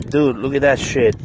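real thrill, pointing at the catch; excited showing off. Real, not acted. Showing the hooked fish.

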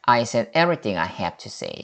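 slow, careful model sentence; teacher models the answer slowly; slow teacher read. Shown as a demonstration. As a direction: spell it out slowly for learners. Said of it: "시작".

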